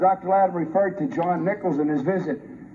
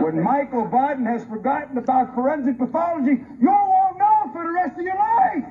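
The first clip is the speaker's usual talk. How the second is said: angry shout; 4 semitones higher than usual. Real, not acted. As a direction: let the anger burst out on the last line. Angry rebuke at press conference.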